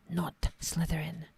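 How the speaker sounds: hushed, slow muttered reminder; self-reminder. Real, not acted. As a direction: whisper a note to yourself. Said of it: "coaching himself".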